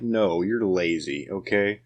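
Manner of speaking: slow, blunt comeback; blunt retort. Retold or imitated. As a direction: put them in their place slowly. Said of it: "I'm like".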